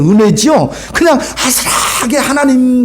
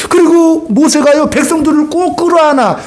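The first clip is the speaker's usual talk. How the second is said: choked up; 6 semitones higher than usual. Real, not acted. Preacher moved to tears telling the congregation how Moses held his people, tearful. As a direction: voice catching as he describes the embrace.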